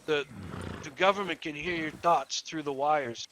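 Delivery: lightly voiced, slow conspiracy believer; slow, hushed hint of a paranoid man; paranoid suspect.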